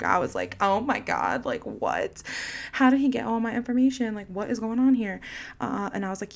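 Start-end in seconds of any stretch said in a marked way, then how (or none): 0.6-5.2 rattled, incredulous rush of questions; acting shook. Telling listeners how shook the scam call left her, acting shook. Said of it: "when I tell you that I was shook".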